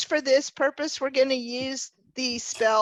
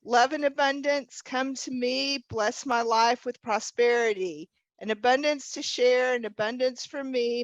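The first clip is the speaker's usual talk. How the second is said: measured rhyming incantation; spell recital. Shown as a demonstration. Leader shows the group the spell, measured recital. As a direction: recite the spell line by line for others to follow. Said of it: "I'm gonna say the spell".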